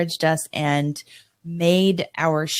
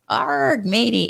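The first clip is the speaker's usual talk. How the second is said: hammed-up pirate growl, higher; 4 semitones higher than usual. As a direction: play a cheesy pirate for a laugh. Pirate talk, eye patch joke.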